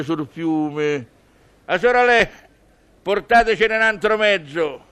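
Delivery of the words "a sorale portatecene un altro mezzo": calling the landlady. Acted. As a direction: shout an order across the tavern.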